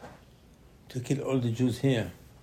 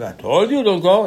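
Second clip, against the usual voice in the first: reproach; 6 semitones higher, 11 dB louder than usual. Retold or imitated. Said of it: "Moshe said".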